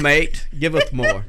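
badly faked Aussie accent; bad Australian accent. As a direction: ham up a poor Australian accent. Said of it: "It was the worst Australian accent ever".

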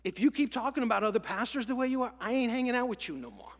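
loud, firm warning to a friend; firm ultimatum. Retold or imitated. Pastor tells his gossiping friend loud firm ultimatum. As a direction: lay down the line. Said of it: "I had to tell him this".

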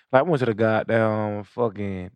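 put-on slow, stretched Georgia accent. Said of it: "Sound like a Georgia nigga".

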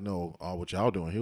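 suspicious, probing question; mock accusing tone, no warmth. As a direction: ask it like you're calling them out. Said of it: "It wasn't like".

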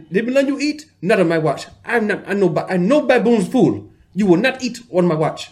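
high, loud, scolding mock African accent; imitating a thick African accent. Thick African accent as the strict dialysis tech refusing food. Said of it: "her accent ... came out real thick".

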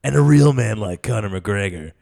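slow, gruff truck ad read; mock truck commercial narrator. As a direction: sell a pickup like a tough-guy ad. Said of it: "a truck commercial".

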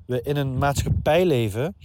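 talking through a head cold; blocked nose from a real cold; stuffy nose. Real, not acted. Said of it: "ik ben een beetje verkouden hier".

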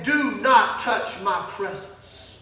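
low, slow and soft, heavy with warning; hushed voice of God. Acted. Preacher voicing God's warning to the young man, low and slow. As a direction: lay it down quietly like a divine command. God's command retold in sermon.

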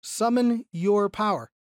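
slow, weighty emphasis on "your power"; stress on "your power". Shown as a demonstration. Teacher repeating the verse to show whose power, stress on "your power". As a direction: set "your power" apart and lean on it. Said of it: "the emphasis there is on your power".

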